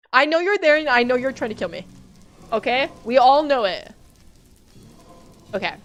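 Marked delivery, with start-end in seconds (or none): 0.1-3.9 taunting. Real, not acted. Player calling out to mobs hiding nearby, taunting. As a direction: warn them you know.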